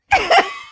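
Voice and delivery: short high giggle. Real, not acted. Laughs at own reading.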